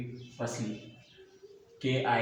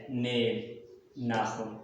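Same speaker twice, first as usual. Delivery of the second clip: ordinary talk, nothing marked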